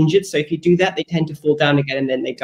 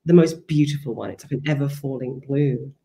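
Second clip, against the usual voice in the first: measured, unhurried reading of her own essay prose; reading aloud. Acted. Author reading her essay to the interviewer, measured and calm.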